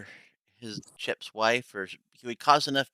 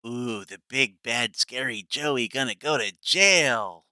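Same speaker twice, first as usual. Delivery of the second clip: mocking; 6 dB louder than usual. Mocking Joey's threat.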